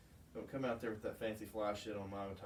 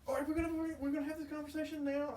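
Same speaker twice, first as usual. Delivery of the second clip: much higher, louder mock-incredulous; sarcastic disbelief; 5 dB louder than usual. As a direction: throw it back in mock disbelief. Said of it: "And I'm like".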